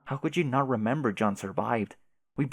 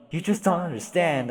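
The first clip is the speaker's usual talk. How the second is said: upset outburst; 5 semitones higher, 4 dB louder than usual. Acted. Upset friend pleading.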